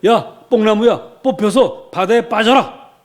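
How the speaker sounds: loud, high, drawn-out command. Shown as a demonstration. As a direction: order it away with full authority. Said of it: "명령하시기 바랍니다".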